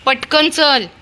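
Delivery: loud, high commands to get up and come; calling dog home. Real, not acted. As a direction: order the dog home, getting impatient. Owner orders dog home.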